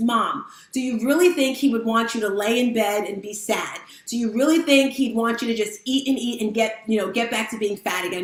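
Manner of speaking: plain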